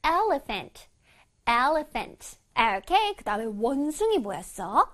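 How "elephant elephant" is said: "elephant" with the PH sounded as F. Shown as a demonstration. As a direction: make a clear F in the middle of "elephant". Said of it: "F 소리가 나야 돼".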